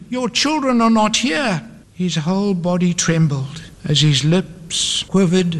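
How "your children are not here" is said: high, emphatic answer; dramatic story voice, pitched high; relentless echo. A narrator's reading. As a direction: throw the denial back in a raised pitch.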